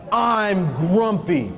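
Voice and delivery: slow grumpy complaint; grumpy elephant. Acted. Elephant grumbling to the visitor, slow and grumpy. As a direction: drag it out sulkily. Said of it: "he said".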